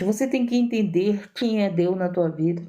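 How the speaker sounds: ordinary delivery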